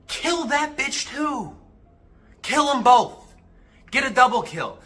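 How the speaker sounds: high, loud battle-cry commands; rousing shout. Real, not acted. Rallying guys to kill both inner voices, fired-up shouting.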